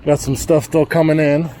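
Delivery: breathless from hurrying; out of breath. Real, not acted. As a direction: talk while catching your breath. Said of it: "Sorry, I'm out of breath".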